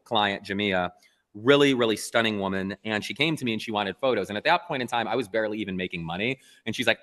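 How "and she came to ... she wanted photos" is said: ordinary talk, nothing marked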